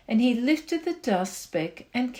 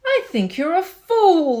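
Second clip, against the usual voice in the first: mocking laugh; 7 semitones higher, 6 dB louder than usual. A narrator's reading. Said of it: "laughed the sour kangaroo".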